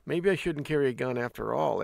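lightly mocked hand-wringing; hesitant, worried. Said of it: "the more hesitant they are".

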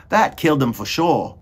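loud, high character voice; Meg's voice. A narrator's reading. Meg thinks the mouse is dead, declaring it loudly. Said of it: "she said".

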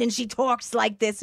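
slow, musical imitation; lilting mentor impression. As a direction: lightly imitate her gruff lilt. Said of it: "She has a very lilt musicality".

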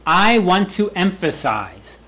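I want to emphasize, slow and deliberate; slow emphatic. Shown as a demonstration. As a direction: spell it out slowly. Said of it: "you just say it out".

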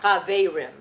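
Chaverim with a back-of-throat R, not an English R; Yiddish guttural R. Shown as a demonstration. Teacher shows the class the Yiddish R in Chaverim. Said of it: "it's not an English".

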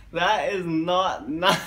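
can't keep a straight face; laughing through it. Real, not acted. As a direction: giggle breaking the words.

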